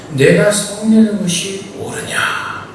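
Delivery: slow, gentle voice of a kind God; merciful God. Retold or imitated. God gently questions the angry Jonah, slow and kind. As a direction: ask it patiently, not scolding. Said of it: "하나님은 자비롭게 말씀하시죠".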